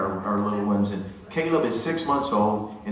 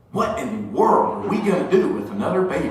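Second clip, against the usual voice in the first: mock indignant child, slightly raised pitch; sassy little girl; 4 semitones higher, 5 dB louder than usual. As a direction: imitate a four-year-old scolding, hands on hips. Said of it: "puts her hands on her hips like this".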